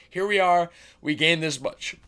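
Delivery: talking through hiccups; speaking with the hiccups. Real, not acted. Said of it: "still have the hiccups".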